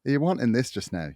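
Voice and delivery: a loud imitation of a Scottish local's accent that drifts toward Irish; mock Scottish accent. Host mimicking Scottish locals' phrasing, mock Scottish accent. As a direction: put on the northern Scottish locals' lilt, loud. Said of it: "That sounded Irish".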